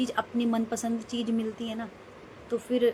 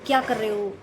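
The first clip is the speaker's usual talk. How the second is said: retold angry outburst; 6 dB louder than usual. Scolding her husband for interrupting her meals, rising to a loud shout. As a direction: tell him off, rising to a yell. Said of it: "मैंने उनको बहुत सुना दिया".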